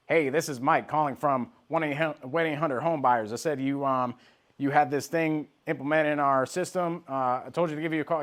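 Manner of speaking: lightly mocked cold-call pitch; random salesperson. Salesperson cold-calling a stranger, lightly imitated routine pitch. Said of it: "and these salespeople".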